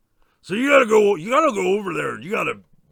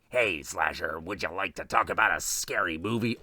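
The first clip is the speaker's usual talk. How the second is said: deep Ghostface phone voice; 11 semitones lower, 7 dB quieter than usual. Retold or imitated. Killer calling the slasher, a low menacing phone voice. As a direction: creep him out over the phone, low and far.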